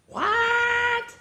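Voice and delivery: squeaky held disbelief; overplayed shock; high shocked what. Shocked by the line.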